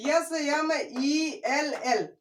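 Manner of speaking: letters spelled out slowly; spelling the mnemonic for students, slowly. Shown as a demonstration. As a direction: read each letter slowly off the board. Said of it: "मैं लिख दिया हूँ यहाँ".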